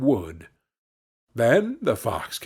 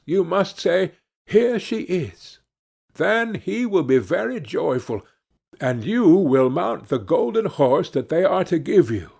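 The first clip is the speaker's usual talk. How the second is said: a hint of a higher, sly fox voice; lightly voiced cunning fox; 4 semitones higher than usual. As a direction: read the fox's instructions a little higher and knowing. Fox instructs the young man.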